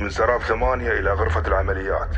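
crackly two-way radio transmission; police radio. Acted. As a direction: speak as over a walkie-talkie. Surveillance team radio report.

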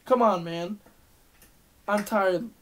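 a whiny, put-upon complaint; querulous. Acted. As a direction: grumble it like a tired kid. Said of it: "Larry said querulously".

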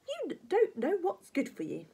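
high-pitched granny reproach; chiding grandma. Acted. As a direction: chide the boy in an old-lady voice.

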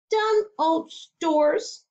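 slow, sulky grumble; sulky child. Acted. Girl sulking about stores, slow pouting grumble. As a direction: drag it out in a pout. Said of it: "Not fair".

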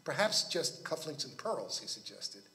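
measured literary read-aloud; story narration. Acted. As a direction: read the tale with deliberate phrasing.

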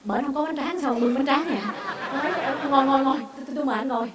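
stuttering, bashful and quiet; flustered stammer. Acted. Hostess flustered meeting the Việt Kiều, stammering. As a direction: trip over every first syllable.

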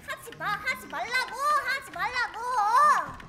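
크고 높게 하지 말라고 끌며 외침; 말리듯 화내며 소리쳐. Real, not acted. 공격당하며 다시 외침. (공격하는 상대에게 크게 화내기)

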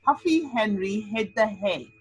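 slow, leaning on each H; alliteration stressed. Shown as a demonstration. Teacher demonstrating alliteration to the class, slow and stressed. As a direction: hit every H sound. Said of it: "is alliterated".

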